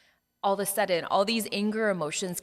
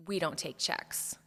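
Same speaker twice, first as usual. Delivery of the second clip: curt, cold refusal, a little quieter and slow; mean cashier; 5 dB quieter than usual. Retold or imitated. Cashier refusing the wife's check, curt and cold. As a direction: flatly shut her down like a mean cashier. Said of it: "it's not with gentleness and kindness".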